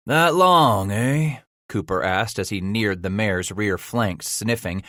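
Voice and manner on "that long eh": surprised gruff exclamation. Acted. Leader surprised.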